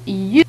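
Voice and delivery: "يو" as a drawn-out y sound; Y glide. Shown as a demonstration. Teacher explaining French igrec, drawn-out "يو". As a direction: slowly say "يو", a y with rounded vowel. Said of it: "تنطق".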